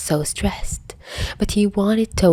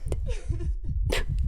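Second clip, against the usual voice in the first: sob; 12 semitones higher, 11 dB quieter than usual. Acted. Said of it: "Peter let out a sob".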